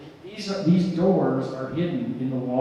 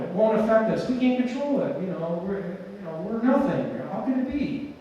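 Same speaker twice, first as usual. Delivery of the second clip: higher-pitched mock voice of the commenter; retelling a commenter's denial in her raised voice; imitating the commenter; 4 semitones higher than usual. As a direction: play her as a fretful doubter, pitched up. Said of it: "and she said".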